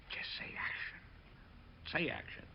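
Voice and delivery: hushed urgent whisper, half-imitated; retold whisper. Assistant on set urging the director, in a soft mock whisper. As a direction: lean in and breathe it like a prompting assistant.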